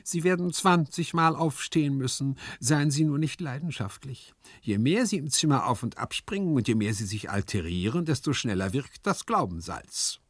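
placid, lecturing comic servant; composed, sententious consoling; philosophical composure. Acted. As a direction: philosophise patiently at an overwrought master. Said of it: "mit philosophischer Gelassenheit".

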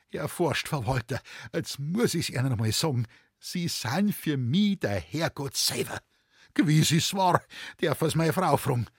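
emotional Bavarian dialect overflowing with gratitude; grateful Bavarian forester. Acted. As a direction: pour out thanks to the boss like a moved country man.

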